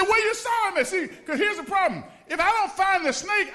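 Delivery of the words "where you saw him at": nervous. Retold or imitated. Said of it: "I said".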